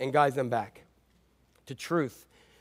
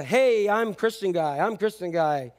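smug mock boast; 3 semitones higher, 3 dB louder, slower than usual. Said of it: "Some of you, it's the".

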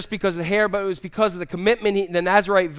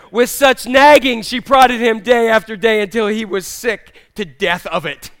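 emphatic verse reading; 3 semitones higher, 6 dB louder than usual. Acted. Favorite verse read out with relish.

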